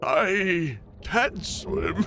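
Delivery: a touch of a drowning elder; old man voice. Pretend. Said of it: "a lot of old man voice".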